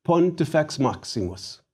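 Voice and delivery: Pontifex Maximus as PON-ti-fex MAHK-si-mus; model Latin pronunciation. Shown as a demonstration. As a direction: say "Pontifex Maximus" with each first syllable stressed. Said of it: "And one more time".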